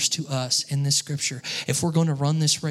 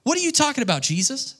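much higher, baffled cry; baffled disciples; 10 semitones higher than usual. Retold or imitated. Disciples asking Jesus what he means, baffled. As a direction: sound totally lost and shocked. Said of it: "the disciples are like".

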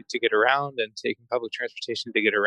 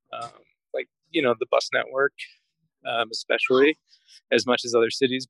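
out of breath. Real, not acted. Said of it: "sorry, I'm out of breath 'cause I'm walking up a hill".

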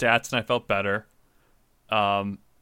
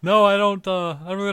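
put-on higher, louder doddering old man; 8 semitones higher, 8 dB louder than usual. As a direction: play a befuddled grandpa. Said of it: "your old man voice".

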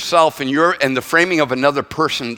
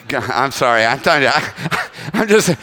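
laughing; 2 semitones lower than usual. Real, not acted. Cracks up at own dad joke.

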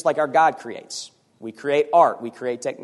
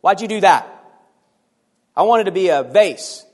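a hint of a complaining ashtray, louder; whining ashtray; 3 semitones higher, 5 dB louder than usual. A clay ashtray yelling at its potter, mild mock whine. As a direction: whine it like a sulky object. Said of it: "the ashtray started yelling at you".

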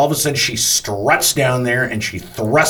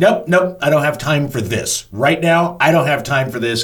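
higher-pitched retold refusal; dismissive brush-off; 4 semitones higher than usual. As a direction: cut them off, no patience. Retold brush-off of entitled woman.

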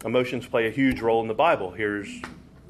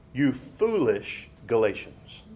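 forceful rebuke; slower than usual. Shown as a demonstration. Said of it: "Pretty strong wording".

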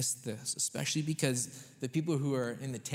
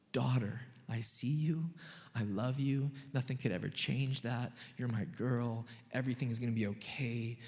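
tender reassurance. Retold or imitated. Parent soothing daughter.

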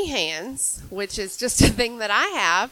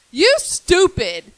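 drawn-out high, loud heckle; retold yell; 9 semitones higher, 9 dB louder, much slower than usual. Driver stops to insult a pedestrian, yelled. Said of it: "the thing that he yelled at me".

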